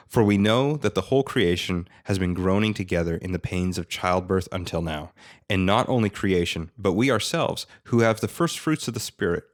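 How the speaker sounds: careful, steady Bible reading; reading scripture aloud. Shown as a demonstration. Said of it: "I'm gonna try to read from the E S V".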